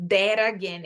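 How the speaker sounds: "That again" joined with a tapped R; T as R sound. Shown as a demonstration. Teacher shows the recurring American pattern, linked "That again". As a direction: flap the T of "That" into "again". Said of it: "Esse padrão se repete".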